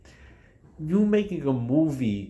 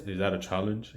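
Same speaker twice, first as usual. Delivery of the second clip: flat, softer, lifeless read with a small rise on "that"; imitating dry delivery; 4 semitones lower, 5 dB quieter than usual. Remake Mufasa answering Scar, dry and unnatural. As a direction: throw the challenge away with no feeling. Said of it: "just so dry and unnatural".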